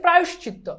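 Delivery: প্রায়শ্চিত্ত as "pra-yosh-chitto"; careful teacher's model of প্রায়শ্চিত্ত with a full middle "o"; correct pronunciation. Shown as a demonstration. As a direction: keep the "yo" audible in প্রায়শ্চিত্ত. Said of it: "এটার উচ্চারণ হচ্ছে".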